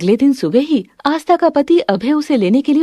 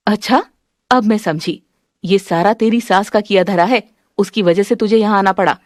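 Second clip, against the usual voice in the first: disapproving mother, knowing. Acted. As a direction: blame the daughter's mother-in-law knowingly. Plays the mother.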